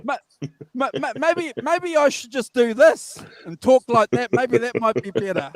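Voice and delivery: high glitchy call audio; warbling sped-up sound; chipmunk voice. Real, not acted. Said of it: "You're on the helium".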